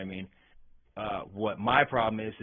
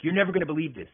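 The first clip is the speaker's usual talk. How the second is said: mildly hyped doctor, higher and louder; super excited; 4 semitones higher, 5 dB louder, faster than usual. Retold or imitated. Excited doctor telling his patient he has news, super excited. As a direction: imitate an excited doctor's big reveal. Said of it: "super excited".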